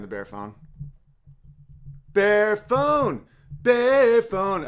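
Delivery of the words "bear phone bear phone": high, loud catchphrase call; playful, drawn-out holler. Pretend. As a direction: sing out the name like a jingle. Calling out bear phone catchphrase.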